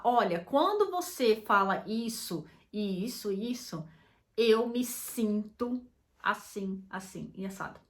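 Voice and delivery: calm, non-accusatory. Shown as a demonstration. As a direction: gently tell your partner how it makes you feel. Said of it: "Não é de uma forma acusatória".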